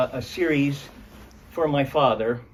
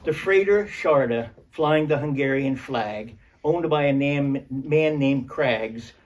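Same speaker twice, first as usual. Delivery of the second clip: poetry reading; 2 semitones higher, 3 dB louder than usual. Acted. Starts reading father poem.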